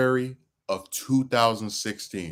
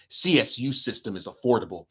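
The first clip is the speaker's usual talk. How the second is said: sneering villain read of the quote; 3 semitones higher than usual. Acted. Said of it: "my, my villain voice".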